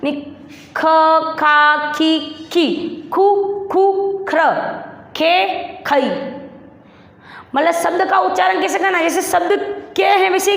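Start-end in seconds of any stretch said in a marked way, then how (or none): 0.8-6.1 syllables back to back; quicker syllable drill. Shown as a demonstration. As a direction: repeat the ख syllables briskly. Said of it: "आ गया ना सब अपने बाप?". (ख के अक्षर जल्दी-जल्दी दोहराना)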